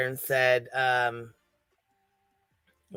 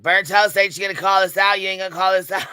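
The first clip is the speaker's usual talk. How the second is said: higher and louder mocking whine, hammed-up; mocking Laura; 6 semitones higher, 6 dB louder, faster than usual. Streamer mimicking the rival's livestream taunt, hammed-up. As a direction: taunt her like the rival would, in a put-on voice. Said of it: "And she's like".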